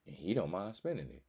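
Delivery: playing the girl plotting her move; voicing a woman. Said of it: "She like".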